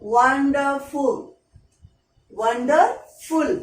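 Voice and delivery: वंडरफुल said slowly, syllable by syllable; teacher drawing out वंडरफुल for the class; slow syllable demo. Shown as a demonstration. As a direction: spell out वंडरफुल by its sound, slowly. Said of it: "जैसे मैंने लिखा यहाँ पे".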